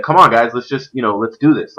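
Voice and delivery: lightly imitated calm team talk; Nameless. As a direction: keep it even, gently coaxing teammates. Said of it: "calm voice, even when he's pissed".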